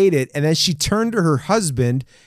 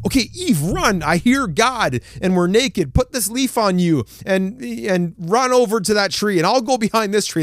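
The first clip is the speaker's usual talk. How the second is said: mock panic; 4 semitones higher than usual. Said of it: "there's Adam freaking out".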